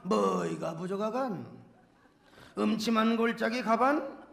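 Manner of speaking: put-on psalm in a North Korean Pyongan accent; Pyongan dialect. Preacher performs the Pyongan version for laughs, Pyongan dialect. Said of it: "평안도 버전".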